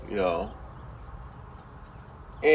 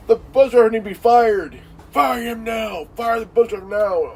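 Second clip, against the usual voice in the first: mock angry demand; 4 semitones higher, 3 dB louder than usual. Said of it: "He gets mad".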